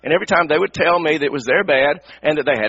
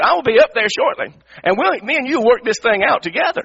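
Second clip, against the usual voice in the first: challenge; 5 semitones higher than usual. Retold or imitated. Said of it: "he sort of challenged me".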